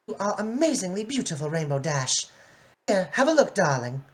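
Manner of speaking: Rarity voice. Acted. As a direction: lift the voice up into a posh pony. Rarity to Dash.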